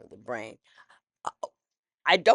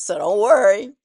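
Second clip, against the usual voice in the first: loud, higher, re-enacted reassurance with a smile; smiling reassurance; 7 semitones higher, 14 dB louder than usual. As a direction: reassure the next person, loud and upbeat. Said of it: "I'd smile and say".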